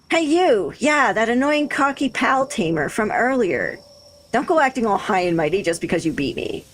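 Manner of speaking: a hint of a cocky Valley Girl rival; Valley Girl accent. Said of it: "Valley Girl with her accent".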